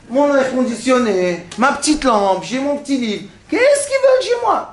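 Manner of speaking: mock indignant grumble rising to a high squeal at the end; grumbling guest. Grumbling man refusing to leave his room, mock indignant. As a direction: play the annoyed homeowner, high at the end. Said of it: "un autre qui va dire".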